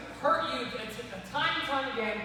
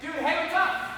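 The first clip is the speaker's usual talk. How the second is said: raised, casual hail as the snake; getting attention; 4 semitones higher than usual. Acted. Snake hailing another snake, a higher-pitched attention-getting call. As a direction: call out lightly for someone's attention. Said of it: "trying to get the other guy's attention".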